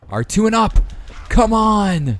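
fired-up, amped-up hype, pitched very high. Streaming a game against Brock, cheering himself on to his viewers, fired up. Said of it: "I'm fired up, man".

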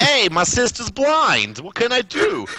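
bad Brooklyn accent, very high pitch. Joking about Yu-Gi-Oh!, a speaker imitates Joey, bad Joey Brooklyn accent. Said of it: "That's the worst Brooklyn accent ever".

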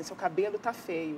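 ordinary delivery

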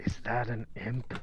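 slow, deliberate, drawn-out stage half-whisper. Leaning over to a companion at a table to ask quietly: half-whispering in character. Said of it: "just whisper in Relicosa's ear".

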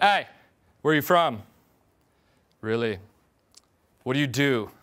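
challenging, commanding tone, each line falling. Demonstrating small-talk tonality with a commanding, slanting downward tonality. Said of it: "the slanting downward, the breaking. I call it like a commanding and challenge tonality".

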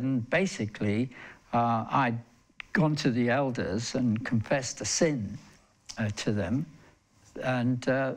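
ordinary talk

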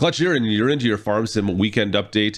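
ordinary delivery

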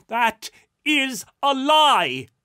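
very loud, shrill, high cry, stretched out slowly. Alone in his chambers, a man yells into the darkness at a vanished spirit. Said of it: "Rupert yelled into the darkness".

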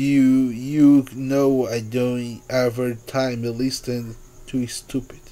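ordinary delivery

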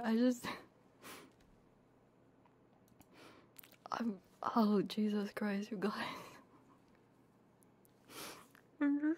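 still tearful after crying. Streamer thanking viewers after crying on stream, still teary. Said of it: "after all the crying and stuff".

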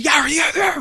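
mock very high-pitched shrieking hype announcer scream. Describing a calm caster beside a louder one, imitating Crepo screaming. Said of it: "fucking starts screaming".

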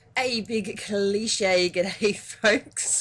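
talking through giggles, very slow. Greeting the viewers at the start of a video, giggling. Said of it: "I'm just giggling at that squid bite".

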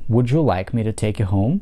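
rising pitch on the word home. Russian lesson on English yes-no questions: rising intonation on home. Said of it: "тогда у вас интонация восходящая. Как раз данный вопрос попадает под эту категорию".

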